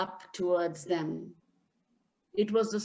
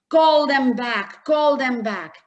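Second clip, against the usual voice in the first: urgent pleading; 6 dB louder than usual. Acted. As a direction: beg him to call them back. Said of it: "he kept saying".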